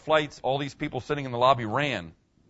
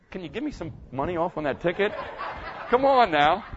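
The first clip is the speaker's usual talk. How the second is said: laughing mock plea; 3 semitones higher than usual. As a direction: tease the officer for a discount. Joking plea to officer.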